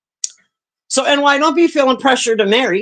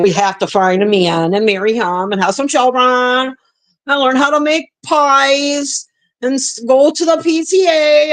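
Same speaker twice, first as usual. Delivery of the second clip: sing-song mocking of the wife's duty list, rising higher and slowing; mock dutiful housewife; 3 semitones higher than usual. Woman mocking the American dream, sing-song mock housewife. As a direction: parody the good little wife reciting her goals.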